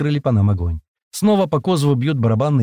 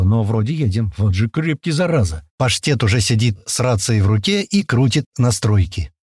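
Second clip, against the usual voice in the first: usual speaking voice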